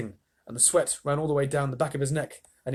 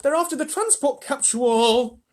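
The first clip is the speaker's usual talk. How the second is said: higher, urgent cry; alarmed boy; 12 semitones higher, 5 dB louder than usual. A narrator's reading. Charlie cries out to Wonka, higher and alarmed. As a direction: call it out in alarm. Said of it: "cried Charlie".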